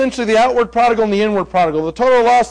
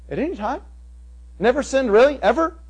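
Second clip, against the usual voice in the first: incredulous; 3 semitones higher than usual. Shown as a demonstration. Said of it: "incredulous questioning".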